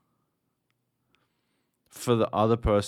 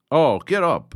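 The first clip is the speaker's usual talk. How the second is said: higher, louder gruff taunt; mock trainer; 8 semitones higher, 10 dB louder than usual. The tutorial trainer taunting him, louder mock bark. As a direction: bark it like a drill instructor. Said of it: "they're like".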